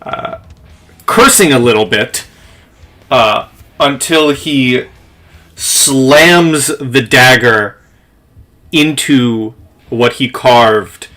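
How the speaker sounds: slow, measured scene setting; game master narration. Acted. Game master describes the revenant exploding to players, measured storytelling. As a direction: tell it with deliberate dramatic pauses.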